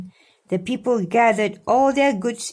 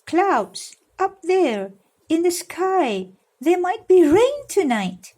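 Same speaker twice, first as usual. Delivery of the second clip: rock keeper's voice; 9 semitones higher, 3 dB louder than usual. A narrator's reading. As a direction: announce the coming rain as the old rock keeper. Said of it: "said the man who looked after the rock".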